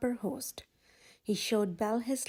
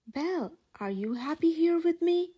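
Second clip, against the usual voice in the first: hopeful question; 6 semitones higher, 4 dB louder than usual. A narrator's reading. Beast asks Belle tenderly.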